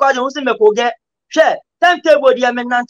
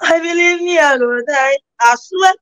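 hammed-up pleading, higher and crying; mock crying plea; 4 semitones higher than usual. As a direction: beg like a lover about to be left, mock tears. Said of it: "I say, I say".

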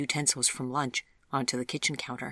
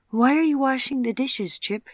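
put-on higher, surprised young woman; Nadine's voice; 10 semitones higher, 8 dB louder than usual. A narrator's reading. Nadine, puzzled, asks Chip why he is washing dishes.

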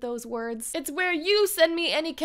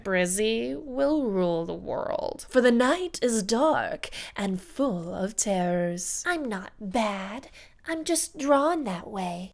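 slow sultry voice; 5 semitones lower, slower than usual. Acted. Impression request video.

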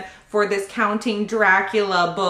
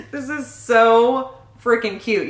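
laughing delight. Real, not acted. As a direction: gush with a laugh in your voice. Delighted by the gift.

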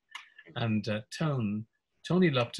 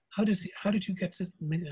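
puzzled publisher; 9 semitones higher than usual. Retold or imitated. Tony on the phone.

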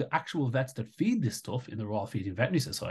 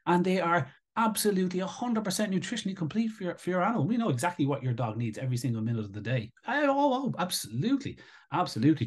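sarcastic mockery; 2 semitones higher than usual. Mocking the industry's advice to dog owners, sarcastic. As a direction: put on a smug salesman tone, dripping sarcasm. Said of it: "this is a very sarky one".

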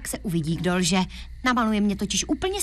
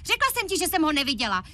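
angry outburst; 6 semitones higher, faster than usual. Acted. Girl blasts her lying boyfriend, angry high outburst. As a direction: voice jumps high in anger.

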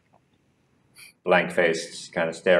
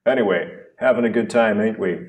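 cheeky stranger; 2 semitones higher than usual. Acted. Man in black, cheeky.

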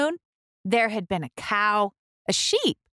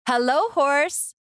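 duck greeting; 6 semitones higher than usual. A narrator's reading. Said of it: "said Duck".

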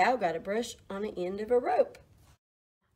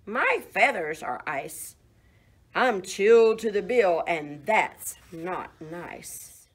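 duck voice; 5 dB louder than usual. Acted. Duck complains, voiced in story.

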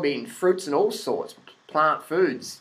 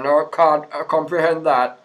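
louder mock voice of a stubborn guest; mock stubborn denial; 3 dB louder than usual. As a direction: lampoon a closed-minded refusal, loud.

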